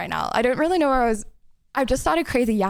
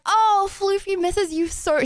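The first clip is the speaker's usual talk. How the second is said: mimicking mum; 7 semitones higher, slower than usual. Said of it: "she's gonna be like".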